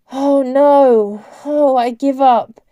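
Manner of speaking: loud exasperation; exasperated. A narrator's reading. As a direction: give up noisily, drawing it out. Failed spelling, character gives up.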